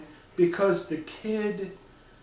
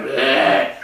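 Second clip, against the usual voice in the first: put-on old Wookiee grunt; 3 semitones lower, 10 dB louder than usual. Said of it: "Grandpa's like".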